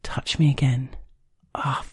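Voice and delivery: breath-led mumbled plea, partly whispered; whispered mumble. A narrator's reading. Narrator answering the partner on the train, whispered mumble. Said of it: "I whispered back to him, mumbling".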